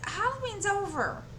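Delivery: high, incredulous halloween's over; retold high disbelief; exasperated. Wife retelling protest to husband.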